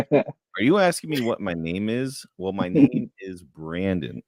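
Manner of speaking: overly polite and precise, slowed down; proper-speaking kid. Retold or imitated. New kid answering bullies, slow and proper. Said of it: "Just talking just like that".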